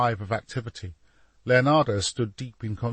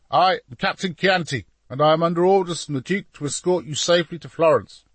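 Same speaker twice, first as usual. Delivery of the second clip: raised, louder official announcement; earnest young captain; 7 semitones higher, 6 dB louder than usual. A narrator's reading. Captain to painter, presenting his orders, earnest.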